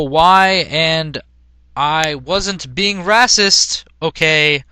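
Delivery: loud, slow, hammed-up angry rant; ranting teen author. Teen author yelling at critics in a hammed-up rant. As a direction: snarl it like an offended teen author.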